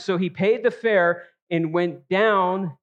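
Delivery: slow read, down pressed hard; stress on down. Shown as a demonstration. Preacher tracing Jonah's descent, slow and stressed. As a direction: let "went down" sink, slowly. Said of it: "He keeps making this descent".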